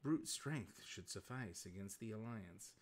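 a lightly voiced erudite beast, grand and measured; intelligent beast voice. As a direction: play a cultured monster savouring his own eloquence. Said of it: "do the intelligent beast accent".

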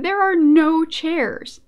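loud, high, drawn-out exasperation; comic indignation. Real, not acted. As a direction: stretch it out in loud disbelief. Indignant at lab without seats.

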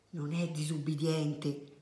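slow, hushed confiding voice; whispered aside. A narrator's reading. Child confides in mother about Lucia, slow whispered aside. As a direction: murmur it low and slow, just for mum. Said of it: "sussurrò Confusione alla mamma".

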